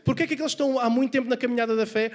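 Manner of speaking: high, loud, driving sermon delivery; impassioned preaching. Real, not acted. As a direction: press the rebuke home to the congregation. Preaches at full force.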